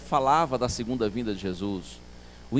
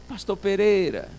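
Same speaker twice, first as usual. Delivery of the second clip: ordinary delivery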